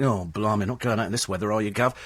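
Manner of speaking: mild mock cockney cabbie moan. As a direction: grumble like a reluctant driver. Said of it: "they are forever moan".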